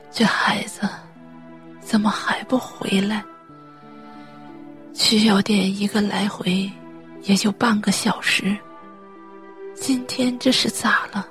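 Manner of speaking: worried, husky muttering to herself; talking to herself. Acted. Mother waiting for her late son, worried self-talk. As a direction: fret aloud in a thin, whispery voice. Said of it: "李刚妈自言自语道".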